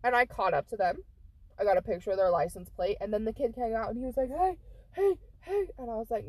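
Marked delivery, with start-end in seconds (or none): 4.3-5.7 put-on kid calling out. Kid calling after her.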